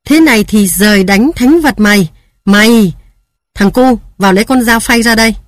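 tearful curse. Acted. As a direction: rage through the tears. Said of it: "nước mắt đổ ròng ròng".

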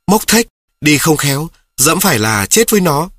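put-on a boy scoffing at his friend; heated retort. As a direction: argue it back fast and high. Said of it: "Tôi lập tức phản bác".

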